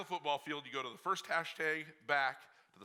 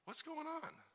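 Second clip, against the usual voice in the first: gentle wife; 3 semitones higher, 9 dB quieter, slower than usual. Retold or imitated. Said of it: "she sits down next to me".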